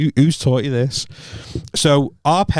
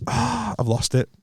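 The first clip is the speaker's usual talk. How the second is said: high, soft, drawn-out groan of defeat; retold dismay; 9 semitones higher, 6 dB quieter, slower than usual. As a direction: re-enact a sinking realisation, slowly. Retold realisation of losing the argument.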